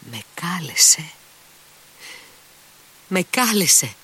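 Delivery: from a stunned whisper up to a cry; shocked whisper rising to a high cry; pale cry. A narrator's reading. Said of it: "φώναξε κατάχλωμη".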